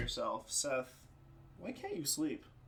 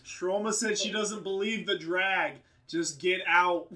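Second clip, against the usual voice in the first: pretend yelling down; 3 semitones higher, 5 dB louder than usual.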